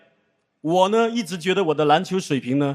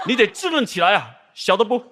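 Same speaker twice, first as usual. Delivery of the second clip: put-on Northeastern accent. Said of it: "一句标准的东北话送给你啊".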